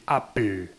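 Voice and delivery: "Apple" said "apl", no vowel at the end; American Apple. Shown as a demonstration. Imitating North Americans, "Apple" as "apl". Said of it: "tuviera A P L solamente".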